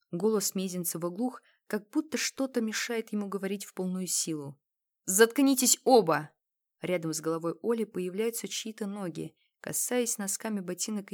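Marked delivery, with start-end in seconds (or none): 5.0-6.3 loud, slow, higher shout; angry shout. Acted. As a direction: shut them both up hard. Captor shouts at captives.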